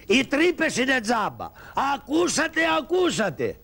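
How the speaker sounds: shouted street crier call; town crier. Acted. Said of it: "Ξέρεις τι θα λες".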